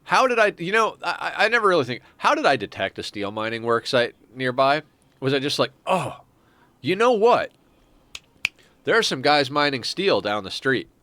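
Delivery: lightly voiced excited colonist; playful colonist voice. Pawn voiced with sudden hunch.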